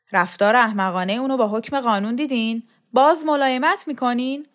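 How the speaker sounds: rising, exasperated challenge; indignant complaint. Acted. Indignant complaint about his leniency. (گلایهٔ خشمگینانه)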